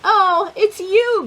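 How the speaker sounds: high, loud and slow delight; drawn-out happy surprise; delighted recognition. Acted. Sam finding his friend Bigsby, high and delighted. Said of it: "Sam said".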